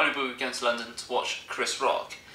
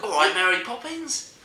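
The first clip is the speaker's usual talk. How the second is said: slow, high mock Cockney; bad chirpy London accent, pitched up; 5 semitones higher than usual. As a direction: drawl it in stagey London. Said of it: "Does anyone speak London?".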